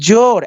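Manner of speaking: জোর with a long "o"; long vowel. Shown as a demonstration. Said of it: "ও এর উচ্চারণ দীর্ঘ হয়".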